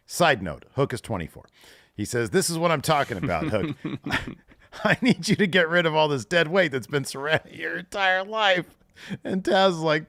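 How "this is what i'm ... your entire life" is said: higher mock mentor voice, a laugh in the middle; hammed-up Jericho. Host voicing Jericho telling Hook to cut dead weight. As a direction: sell it like a smug veteran.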